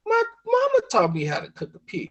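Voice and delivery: very high-pitched mock wife voice; defensive wife. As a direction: protest like a hammed-up country wife. Wife defends herself in story.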